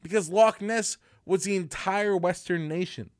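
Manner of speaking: usual speaking voice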